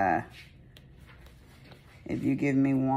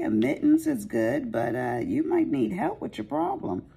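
higher, lightly teasing voice; mock concern; 11 semitones higher than usual. The speaker teasing her client about her drinking problem, higher voice. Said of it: "I was like".

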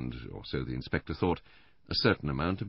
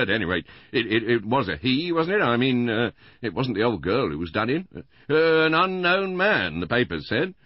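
high, loud, rambling householder; Mister Bland, chattering; 8 semitones higher, 10 dB louder than usual. A narrator's reading. Husband gossiping to the inspector about the murder, chattering loudly. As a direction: rattle on excitedly in a raised voice.

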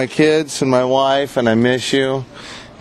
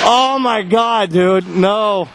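scared; 5 semitones higher, much slower than usual. Real, not acted. About to face 100 mph shots.

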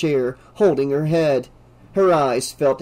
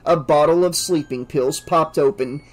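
ordinary delivery, nothing marked

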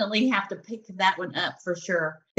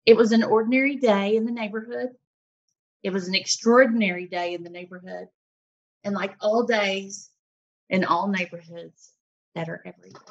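read aloud. Acted. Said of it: "the last page reads, and I quote".

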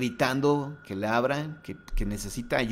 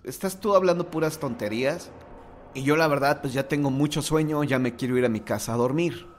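impatient, exasperated, higher at the start; a tired driver losing patience; fed-up plea; 3 semitones higher than usual. Retold or imitated. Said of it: "se desespera y le dice".

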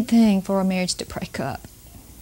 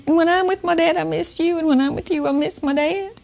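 a lightly voiced little boy, pitched higher; child's voice; 8 semitones higher than usual. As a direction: mimic the small boy torn between his parents, higher and gentle. Retelling a crying five-year-old.

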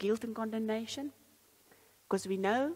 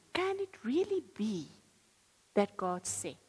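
tempter's voice. Acted. Satan's doubting voice quoted.

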